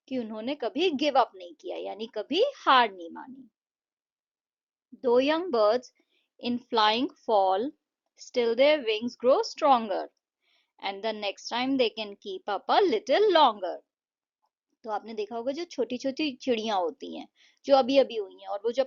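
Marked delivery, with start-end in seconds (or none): 5.0-13.8 slow, measured verse with pauses between lines; poem recitation. Shown as a demonstration. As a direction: recite it slowly for children, phrase by phrase. Reads poem stanza before explaining. (धीमी लय में कविता पाठ)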